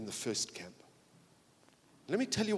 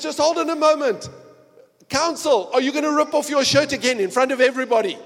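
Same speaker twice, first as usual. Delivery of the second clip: weary judge; 12 semitones higher, 17 dB louder, faster than usual. Acted. Judge addressing counsel, exasperated.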